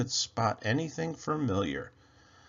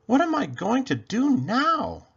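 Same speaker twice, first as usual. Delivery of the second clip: worried self-talk; 13 semitones higher, 5 dB louder than usual. A narrator's reading. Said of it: "he said to himself".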